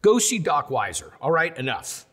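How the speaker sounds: high, fed-up mother voice; high exasperated mother telling her son off; exasperated mom. Retold or imitated. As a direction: play the mom who has had enough. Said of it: "My mom's like".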